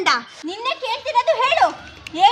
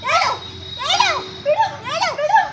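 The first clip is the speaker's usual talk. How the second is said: demanding; 6 semitones higher than usual. Acted. Pressing a captive for answers.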